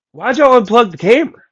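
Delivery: high, puzzled voice of the homeowner; confused friend. Retold or imitated. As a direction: pitch way up, baffled and accusing. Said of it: "And he goes".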